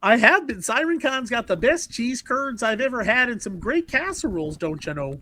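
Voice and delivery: light put-on Wisconsin accent; chatty Wisconsin local, accent lightly hammed up; folksy Wisconsin accent. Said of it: "Now we're getting into Wisconsin".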